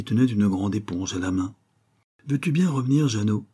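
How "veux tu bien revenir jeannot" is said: put-on raised call after a runaway boy; mother calls her son back, a bit higher; calling the child. Mother chasing her boy, calling him back. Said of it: "cria-t-elle".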